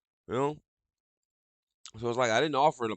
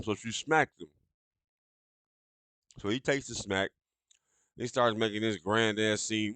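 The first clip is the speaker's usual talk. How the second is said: normal talking voice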